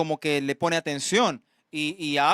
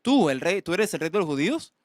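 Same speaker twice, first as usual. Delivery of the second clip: mocking. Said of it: "es como burla".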